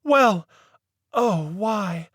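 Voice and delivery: put-on a proper old lady leading the inquiry; prim lady voice. A narrator's reading. Mary Mabel covers herself.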